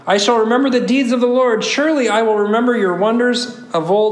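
measured, deliberate psalm reading; scripture reading. Acted. Preacher reading a psalm to the congregation, measured recitation. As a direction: read the verse out in careful, weighted phrases.

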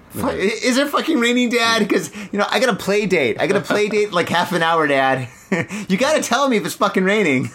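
put-on high, whiny child pestering dad; bratty kid voice. Daughter nagging her dad about the rain, high and whiny. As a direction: pester like an impatient little kid. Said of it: "she said it as a question".

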